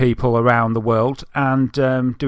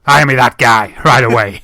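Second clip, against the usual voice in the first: laughing; 8 dB louder than usual. Real, not acted. Laughing mock hiring call.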